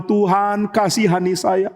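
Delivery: acted penitent pleading; pleading prayer. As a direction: beg God for forgiveness. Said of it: "Dia memohon".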